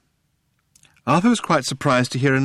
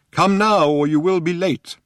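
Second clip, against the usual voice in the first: put-on higher, louder old man pressing; urgent old man; 10 semitones higher, 5 dB louder than usual. A narrator's reading. Old man urging Arthur not to be late, higher and louder. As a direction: hurry him along.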